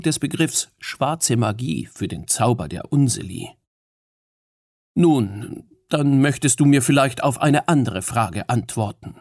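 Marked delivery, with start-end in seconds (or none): 4.9-9.1 measured, careful proposal; deliberate suggestion. Acted. Fionn deliberately suggests another question to Mab. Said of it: "schlug er bedächtig vor".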